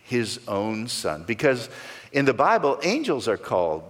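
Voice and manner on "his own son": slow emphasis landing on own; stress on own. Shown as a demonstration. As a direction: own leaned on, slow and weighty. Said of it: "Emphasize that word own".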